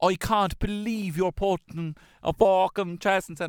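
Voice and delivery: very high, put-on posh English accent. Trying out a hybrid accent mid-conversation, in a posh Queen's English accent. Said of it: "it would be a posh the queen's english".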